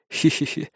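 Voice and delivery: quiet breathy heh-heh; quiet rueful chuckle; soft chuckle. Acted. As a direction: chuckle under your breath. Narrator chuckles softly.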